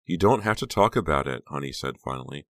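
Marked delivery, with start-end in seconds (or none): 0.0-1.4 higher-pitched, overbearing comforter; gushing, solicitous friend. A narrator's reading. Honey hugging Becca and consoling her, gushing. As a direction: smother her with sympathy.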